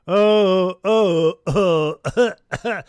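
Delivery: loud drawn-out oh oh oh, half laughing; loud groan. Real, not acted. Fan groaning at the thought of a Super Bowl.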